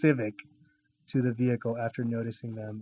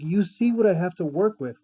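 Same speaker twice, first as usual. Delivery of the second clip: light mock German accent, a bit higher and louder; 5 semitones higher, 4 dB louder than usual. Podcast host quoting the film's doctor, mock German accent. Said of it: "with a German accent".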